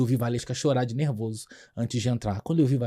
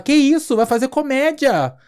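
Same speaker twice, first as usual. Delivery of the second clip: high, loud, incredulous producer voice; startled producer; 11 semitones higher, 6 dB louder than usual. Retold or imitated. Producer scolds the glum comedian, high incredulous voice. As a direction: play the producer, shocked at the gloomy comedian. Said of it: "Aí a produtora fala".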